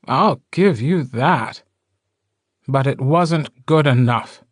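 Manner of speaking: slow mocking concession; taunting. A narrator's reading. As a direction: toy with them, drawing it out. Mocking villain concedes before firing.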